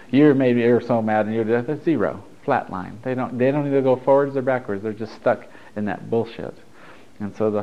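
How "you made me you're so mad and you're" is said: louder burst of mock blame at the start; mock mad. Someone stuck being mad at you, mock accusing. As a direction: act out a mildly angry accusation. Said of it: "being mad at you".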